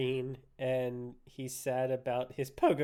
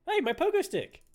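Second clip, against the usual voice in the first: high, loud outraged yell; indignant shout; 14 semitones higher, 5 dB louder than usual. Real, not acted. Gamer yelling at the character who took his stick, outraged shout. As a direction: cry out at the thief. Protests item being taken.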